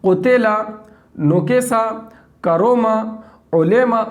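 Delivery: फोकेदा with o and e for u and i; wrong majhool vowels. Shown as a demonstration. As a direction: show the ugly wrong reading. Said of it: "कितना बेकार लगता है".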